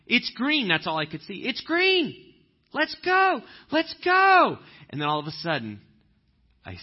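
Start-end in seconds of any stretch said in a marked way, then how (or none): 0.0-0.7 fired up. Retold or imitated. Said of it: "I was just so fired up". 1.5-4.6 much higher, louder, frantic urging; fired-up impatience. Retold or imitated. Impatient driver seeing only the green light, high and loud. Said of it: "I was just so fired up".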